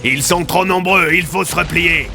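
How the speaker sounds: high, stretched cry of alarm; urgent shout. A narrator's reading. Wooden warns his outnumbered side, urgent shout. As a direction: call the retreat loudly. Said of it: "cria Wooden".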